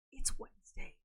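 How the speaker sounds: very high unvoiced squeak; squeaky voice. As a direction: squeak it out weirdly. Weird squeaky Wednesday.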